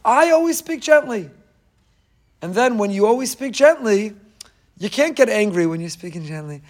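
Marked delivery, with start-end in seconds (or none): 0.0-1.3 lifted high, proclaimed like a vow; emphatic declaration. Pretend. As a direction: announce it as your new self.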